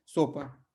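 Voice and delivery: सोपा with a clear final a, said slowly; Portuguese sopa. Shown as a demonstration. Teacher models सोपा for the class, falling. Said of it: "तो कई तरह के सोपा हैं".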